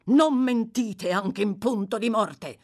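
loud solemn admonition; solemn appeal. A narrator's reading. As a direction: urge gravely, leaning on each word. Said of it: "in tono solenne".

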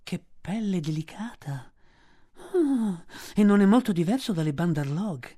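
a smooth threat; python warning. A narrator's reading. Kaa warns Mowgli not to look like a monkey.

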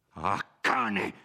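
sfogo rabbioso, più forte; urlo rabbioso. Acted. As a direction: sbotta con rabbia. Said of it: "urlò Renzo". (Renzo che impreca contro il nemico, rabbioso)

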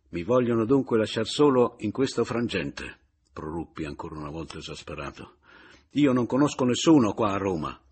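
sbotto più forte di rabbia; esasperato. A narrator's reading. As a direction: esplode sfinito. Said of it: "proruppi esasperato". (esasperato e forte)

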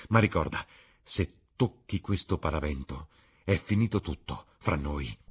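emphatic warning, easing to a measured ultimatum; Dorian threatening, angry. Acted. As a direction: lay down an ultimatum firmly.

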